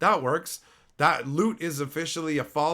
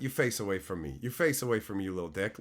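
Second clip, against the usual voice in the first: low muttering; 7 semitones lower, 6 dB quieter, faster than usual. Real, not acted. Muttering insult to chatter.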